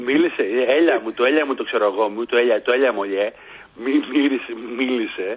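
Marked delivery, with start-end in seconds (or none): 0.8-3.3 mock Athenian caller, "έλα" turned into "έλια"; προφορά με ελαφρύ λάμδα. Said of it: "προφοράς του". (μίμηση νότιας προφοράς με μαλακό λάμδα)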